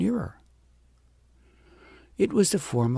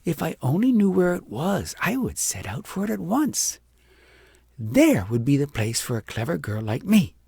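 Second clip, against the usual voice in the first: higher, lightly voiced young girl, wistful; a vain little girl daydreaming aloud; lightly voiced vain girl wishing for a palace; girl Agnes dreaming; 4 semitones higher than usual.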